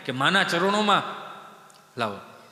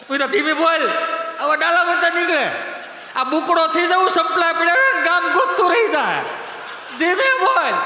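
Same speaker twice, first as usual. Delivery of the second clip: mock hush shouted; 8 semitones higher, 4 dB louder than usual.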